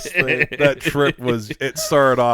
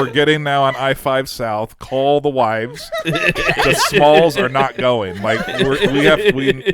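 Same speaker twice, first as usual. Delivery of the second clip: laughing panic; 4 dB louder than usual. Retold or imitated. Panicked dad announcing retreat.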